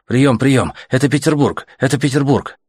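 high-pitched, repeated call sign; radio operator calling. A narrator's reading. Petersburg operator hailing any listeners, radio calling. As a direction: call out into the static for anyone.

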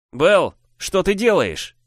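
slow, high, stunned babble; bewildered younger brother; babbling. Acted. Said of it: "лепетал мой брат".

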